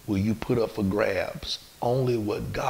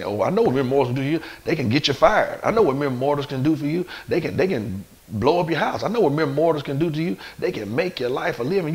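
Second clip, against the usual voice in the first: worried objectors; 5 semitones higher, 4 dB louder, faster than usual. Acted. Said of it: "I know some people saying".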